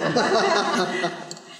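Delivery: loud high peal of laughter; real amused laughter. Real, not acted. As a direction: laugh hard at the punchline. Laughs at the punchline.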